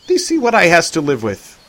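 put-on high, piping boy voice; a six-year-old talking grown-up; little boy speaking mock Elizabethan; child Joseph. A narrator's reading.

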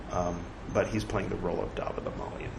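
quick hushed aside, almost unvoiced; whispered aside. Real, not acted. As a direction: slip it in softly and fast, under the breath. Aside about the role.

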